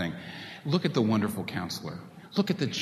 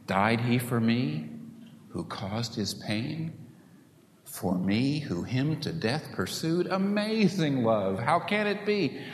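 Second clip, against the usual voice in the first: hymn recited slowly; 2 semitones higher, slower than usual. Retold or imitated. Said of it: "You sing about it".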